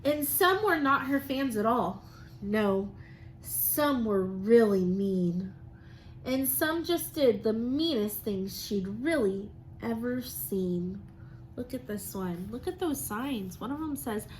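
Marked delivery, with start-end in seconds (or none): 0.0-11.0 lively, sing-song storybook reading; reading to children. Acted. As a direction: read it like a rhyming picture book to the class. Teacher reads picture book aloud.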